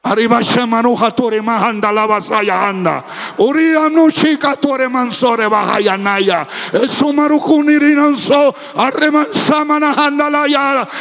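rhythmic glossolalia at a preaching pitch; speaking in tongues. Acted. Preacher before the congregation, breaking into tongues, chanted. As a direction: pour out tongues in a steady chant.

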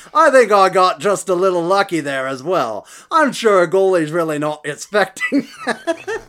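put-on Australian accent. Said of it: "Now I'm sounding more and more like Idris Elba".

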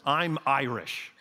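slow, deliberate declaration; quoting the Irish coworker. Retold or imitated. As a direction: state it plainly, like a fixed rule of life. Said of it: "he looks at me one day and he says".

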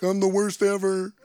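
mock wallowing said through a laugh; laughing mock confession. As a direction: play the failure for laughs. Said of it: "don't wanna go to this meeting and be like".

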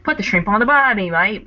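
mock Aussie ad voice, forced hard; overdone Australian accent. Mocking the Outback ad's forced Australian accent. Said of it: "you can't be like the guy in the Outback commercial".

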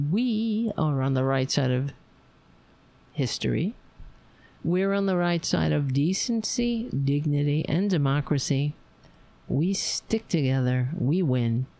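rallying sign-off. Acted. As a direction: spell out each value with conviction. Repeats the sign-off speech.

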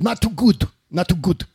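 mock politician with affected, hard-edged "good"; Donald Trump. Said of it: "as he said".

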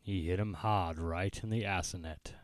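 put-on Boston accent. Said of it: "You can't do a Boston accent".

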